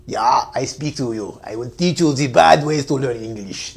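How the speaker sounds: lightly voiced villain, slow and deliberate; mock evil cousin voice. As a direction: play the evil teacher, slow and menacing. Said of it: "Evil E is going to teach".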